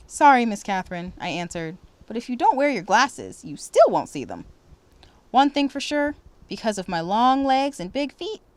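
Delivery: expressive read-aloud storytelling; story narration. Acted. Teacher reading a story to students, expressive narration. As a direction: read it warmly to the class.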